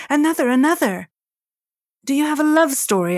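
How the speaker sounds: high, quick excited calls; eager crowd shout. Acted.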